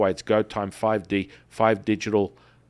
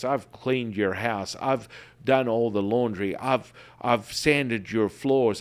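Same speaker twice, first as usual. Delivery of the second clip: mock despair. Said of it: "kind of just, like, in despair".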